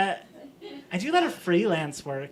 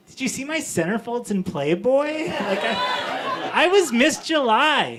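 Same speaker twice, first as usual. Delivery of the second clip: indignant boast; 5 semitones higher, 4 dB louder than usual. Acted.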